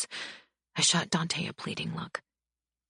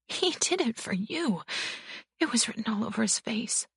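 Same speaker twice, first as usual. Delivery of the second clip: put-on bruised young wife; 8 semitones higher than usual. A narrator's reading. Bibi voiced, after laughing.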